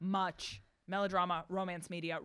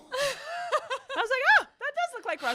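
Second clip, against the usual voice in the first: laughing; 9 dB louder than usual. Real, not acted. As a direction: crack up while saying it. Laughing at Russian tunnel.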